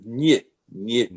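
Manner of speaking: "ny" with a palatalized Russian n; Russian sound demo. Shown as a demonstration. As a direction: say each "ny" separately, n and y fused. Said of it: "the N Y".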